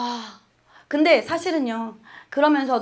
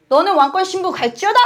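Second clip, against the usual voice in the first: bolder declaration; 4 semitones higher, 3 dB louder than usual. Retold or imitated. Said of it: "막 이렇게 더 목표를 더 높이".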